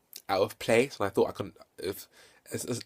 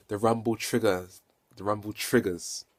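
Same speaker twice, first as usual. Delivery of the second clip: slow, deliberate "Rumble triggers"; careful repeat; slower than usual. Real, not acted. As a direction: sound out an unfamiliar term slowly. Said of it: "still getting used to saying that".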